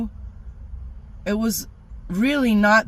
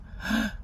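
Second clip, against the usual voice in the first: gasp; 6 semitones higher, 5 dB quieter than usual. Retold or imitated. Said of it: "I go".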